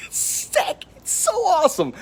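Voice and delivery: breathy whispered sick after a laugh; hushed awe. Real, not acted. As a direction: whisper it like a secret thrill. Gushing about the coating.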